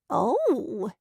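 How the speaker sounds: a small breaking cry of surprise; startled oh. Acted. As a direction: catch the breath, dismayed. April startled by family gathering.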